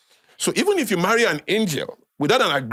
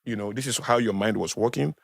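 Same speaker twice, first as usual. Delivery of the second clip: lower, subdued apologetic voice; sincere apology; 4 semitones lower than usual. Acted. Speaker models a full apology to an offended partner, sincere and subdued. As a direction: apologize earnestly, dropping the voice.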